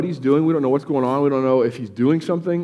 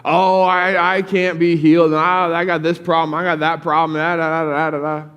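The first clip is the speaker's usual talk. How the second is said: whiny complaining; 3 semitones higher, 3 dB louder than usual. Retold or imitated. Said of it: "starts complaining".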